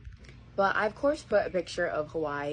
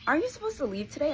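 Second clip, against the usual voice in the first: imitating mom; 11 semitones higher, faster than usual. Mom surprised she hasn't left.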